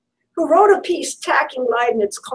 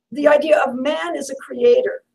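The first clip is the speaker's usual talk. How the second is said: idea hit hard, raised voice; emphatic shout. Real, not acted. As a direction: punch it out, nearly shouting. Restarts the phrase, now emphatic.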